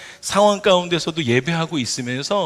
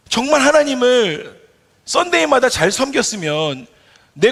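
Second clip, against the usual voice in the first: desperate prayer; 5 semitones higher than usual. Acted. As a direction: beg God to answer you. Pleading prayer acted as believer. (응답 없는 하나님께 매달리는 신자, 높고 크게 호소)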